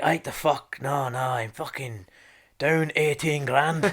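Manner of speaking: lightly put-on Scottish accent, drawn out; slow, casual Scottish shrug of a reply. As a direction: imitate a Scottish punter, unhurried. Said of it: "this Scottish guy was there".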